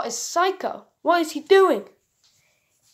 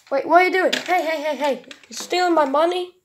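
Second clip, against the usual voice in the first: alarmed; 3 semitones higher than usual. Acted. Owner catches the robot.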